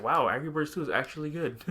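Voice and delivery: mild retold astonishment; surprised. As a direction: quote people's pleasant surprise, lightly. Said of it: "people have been also surprised".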